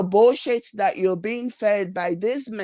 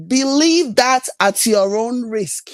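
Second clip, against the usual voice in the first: P=A; stern warning; 6 dB louder, slower than usual. Real, not acted.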